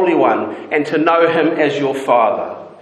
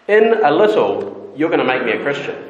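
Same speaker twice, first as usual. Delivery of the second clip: resigned statement. Retold or imitated. Preacher voicing Agrippa admitting Paul's pull, resigned. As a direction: concede it as a plain statement. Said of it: "making a statement that goes like this".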